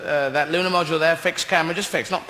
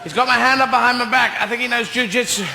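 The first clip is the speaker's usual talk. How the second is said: mock distressed astronaut; 4 semitones higher than usual. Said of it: "the speaker doing close-up work".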